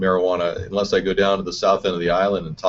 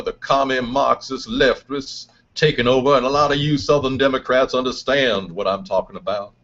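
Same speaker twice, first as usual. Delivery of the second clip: Southern politician. Acted. Political candidate speech character.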